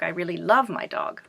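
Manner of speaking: "love" picked out over the rest; stress on LOVE. Shown as a demonstration. Teacher contrasting loving with hating the dog, stressing "love". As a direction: put the weight on "love". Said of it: "you will stress certain words".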